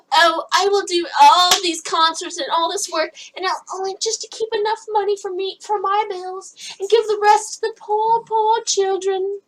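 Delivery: high-pitched goody-two-shoes voice; mock do-gooder. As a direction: imitate a self-sacrificing saint, pitched high. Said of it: "He's a".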